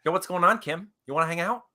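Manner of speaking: lightly voiced actor asking for a date; casual come-on with questioning lilt, rushed at the end; a rapper impression. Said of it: "a rapper and Kim K".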